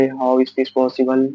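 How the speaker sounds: drawn-out, stretched words; slow incredulous question; slow disbelief. Real, not acted. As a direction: spell out the disbelief very slowly. Mock disbelief at film goof.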